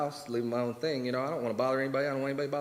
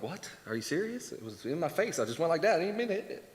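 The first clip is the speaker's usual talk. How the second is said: softer, higher mock protest; mock disbelief; 4 semitones higher, 3 dB quieter than usual. Caught by the Sabbath rule, a mock disbelieving protest. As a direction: protest like you can't believe it. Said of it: "And you're like".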